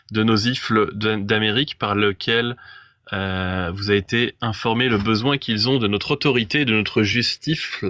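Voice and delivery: reading with a lisp, s turned to f; lisping through an old decree. Acted. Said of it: "je prononce le S avec un accent de merde comme si j'avais un cheveu".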